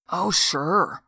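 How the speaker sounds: mumbled through a mouthful of slaw; mumbling with mouth full. A narrator's reading. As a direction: talk around a bite of food. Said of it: "he mumbled as he poked some loose cold slaw".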